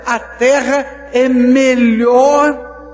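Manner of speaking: high, loud, thrilled announcement; excited spies. Acted. Spies back from the land, shouting their amazement to the people. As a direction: sell the good news with delight.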